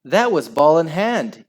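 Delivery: high, loud claim; yell. A narrator's reading. Cassim reporting a handball, yelling. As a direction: yell it across the pitch. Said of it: "yelled kind Cassim".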